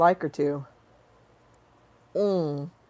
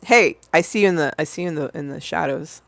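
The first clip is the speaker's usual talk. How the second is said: sexy version; 2 semitones lower, much faster than usual. Pretend. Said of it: "I can do it the sexy version".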